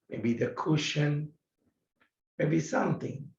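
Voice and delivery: gentle guided-practice voice with long pauses; measured phrases, spaced out for a seated meditation. Acted. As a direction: guide them gently into breath and stillness, unhurried.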